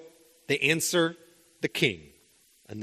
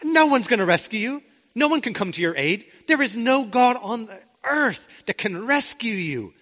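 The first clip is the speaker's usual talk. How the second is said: higher, proud king asserting his power; own-voice hint of a boastful king; king's boast; 5 semitones higher than usual. Preacher voicing the king threatening the three men, proud. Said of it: "the king is saying".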